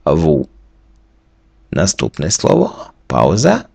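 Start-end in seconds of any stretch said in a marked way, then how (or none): 0.1-0.5 "ву" as French vous, s silent; low model of "ву" with an "oo" vowel; French reading. Shown as a demonstration. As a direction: sound out "ву" for learners. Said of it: "Слово читається".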